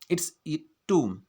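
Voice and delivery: it's a tomb whispered, tomb as toom; whispered model. Shown as a demonstration. Teacher whispers the correct word as a model. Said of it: "टूम".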